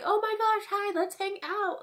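high, gushing fake enthusiasm; mock gushing aunt. Mocking the aunt's casual message, high and gushing. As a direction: parody a too-familiar relative.

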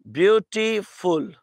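"ब्यूटीफुल" broken into three separate sounds, ब्यू, टी, फुल; syllable by syllable. Shown as a demonstration. Teacher showing students the three sounds, "ब्यूटीफुल" split syllable by syllable. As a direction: say "ब्यूटीफुल" with a small break after each syllable. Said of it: "अगर आप इसे break करें तो इसके तीन sound हैं".

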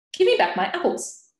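high, loud furious demand; old woman demanding her apples back; angry demand. A narrator's reading. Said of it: "the woman demanded".

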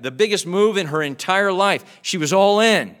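preaching at full force. Real, not acted. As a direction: drive the words home to the congregation. Preaching climax.

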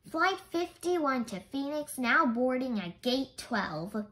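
mildly voiced loudspeaker announcer; airport announcement. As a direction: read it like a gate call, drawn out at the end. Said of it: "This time it was very loud".

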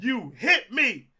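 laughing mock accusation. Mom accusing, laughing retelling.

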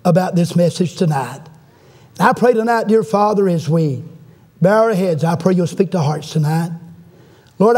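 earnest prayer in measured phrases; closing prayer. Real, not acted. Preacher praying to God for his people, earnest prayer. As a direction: pray aloud, pausing between phrases.

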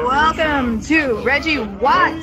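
big drawn-out show opening; ringing host announcement; event emcee. Acted. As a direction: welcome the crowd like a live host.

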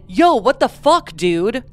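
restrained mock yell; retold protest. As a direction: quote an angry protest, holding back from a shout. Reads out victim's yelled words.

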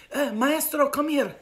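loud, high imitation of his summons; summoning call. Suitor calls the maestro over, summoning loudly.

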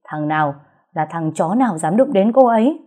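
who dared touch her, rising rage; man shouting at thugs who hurt his girlfriend; angry shout. Acted. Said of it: "giận dữ hét lên".

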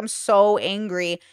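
slow, sulky mope; mild mopey whine; moping. Retold or imitated. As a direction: drag it out like a sulking child. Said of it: "moping kind of".

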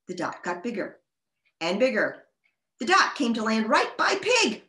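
animated picture-book narration; story reading. A narrator's reading. Reader tells children Pig's spring morning, story reading. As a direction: read it out to young children, lively pitch swings.

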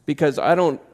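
a hint of a stubborn prisoner refusing to leave; lightly voiced, refusing the open door with loud stubbornness. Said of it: "in our jail cell and say".

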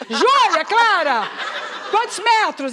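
mais alto, chamando as meninas. Retold or imitated. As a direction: chama as filhas aflita. Chamando as filhas. (mãe chama as filhas alto e aflita)

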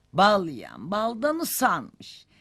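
slow, stretched, lilting delivery; slow singsong recital; drawn-out saying. Acted. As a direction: draw out the proverb with weary irony.

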